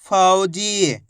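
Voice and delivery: फौजी as one joined, measured word; syllables joined. Shown as a demonstration. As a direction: blend फौ and जी without a pause. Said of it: "तो मिलके बन जाएगा".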